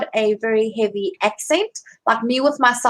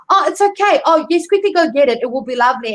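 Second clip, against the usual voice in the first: bright, higher eager voice; gushing hiring manager; cheerful reassurance; 4 semitones higher, faster than usual. Retold or imitated. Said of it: "the person would be".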